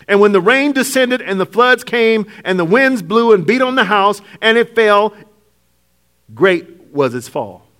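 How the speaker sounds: measured, solemn Bible reading; scripture reading. Acted. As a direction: read the verse slowly and gravely. Reads scripture aloud.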